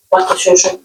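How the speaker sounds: "Wake shosho" said as wa-ke sho-sho, each syllable clear; Kikuyu greeting. Shown as a demonstration. Teaching learners to greet their grandmother, clear and careful. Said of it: "this is how we say it".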